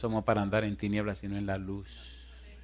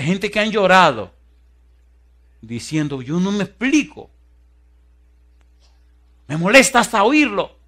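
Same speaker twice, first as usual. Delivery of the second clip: a loud, slow mock wail; llanto imitado; 7 semitones higher, 9 dB louder than usual. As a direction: imitate people crying it out. Predicador imita gente llorando. (imitando un llanto fuerte y lento)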